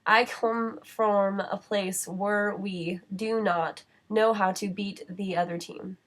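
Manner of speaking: very slow, word by word; slow example read. Shown as a demonstration. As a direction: read the test sentence slowly. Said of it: "may have a hard time dealing with this sentence".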